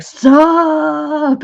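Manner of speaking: casual whale voice. Retold or imitated. Whale greeting in retold story.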